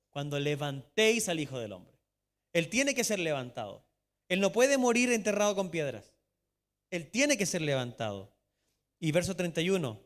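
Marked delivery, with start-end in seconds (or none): 0.1-8.3 louder, insistent preacher's emphasis; preaching. Acted. Pastor insisting to the church, preaching louder. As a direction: hammer the point home.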